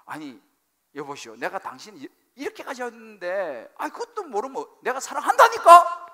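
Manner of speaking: exasperation climbing to an acted shout; irritated husband. Husband insisting on his love, increasingly irritated. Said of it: "그때는 짜증 섞인 날".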